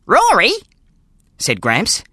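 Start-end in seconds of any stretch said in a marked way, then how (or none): 0.1-0.5 put-on old grandfather voice. Gramps voiced in the story.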